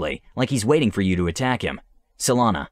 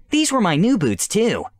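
high, whining complaint; whiny princess; 9 semitones higher than usual. Acted. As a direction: whine about the ruined boots. Mud on her boots.

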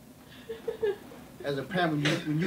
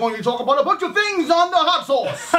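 laughing; 10 semitones higher, 8 dB louder than usual. Real, not acted. Laughing intro line.

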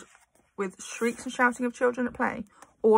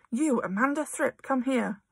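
mild shout; 4 semitones higher than usual. Acted. Trunchbull calling Amanda across the playground, mild shout. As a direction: summon the girl sharply. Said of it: "she was shouting".

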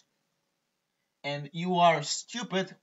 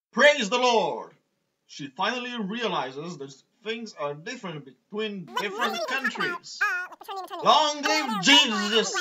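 squeaky sped-up voice, higher; pitched up and squeaky like sped-up audio; chipmunk voice; 6 semitones higher, 4 dB louder than usual. Acted. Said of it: "the squeaking of the sped up audio".

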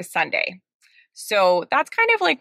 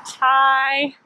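muffled behind cloth mask; speaking with covered mouth; through a face mask; 2 semitones higher than usual. Real, not acted. Seen 2: Black cloth mask covers her mouth and nose throughout.

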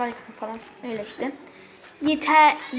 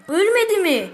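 surprised disbelief; 7 semitones higher, 8 dB louder than usual. Real, not acted. Repeats in disbelief, louder.

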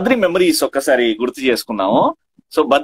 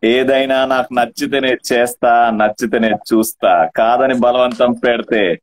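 menacing movie punchline; 5 semitones lower than usual. Acted. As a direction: deliver it like a menacing hero. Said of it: "అది Bruce Lee".

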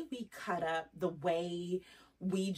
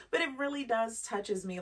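laughing while moved; 4 semitones higher than usual. Real, not acted. Laughing after tears.

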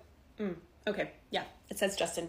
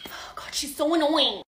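put-on annoyed teen. Teen grumbles after the call.

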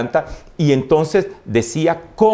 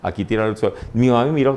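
ordinary talk

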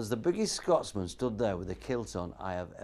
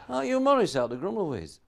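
excited fan; 8 semitones higher, 5 dB louder than usual. Retold or imitated. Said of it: "The fella flogging it says".

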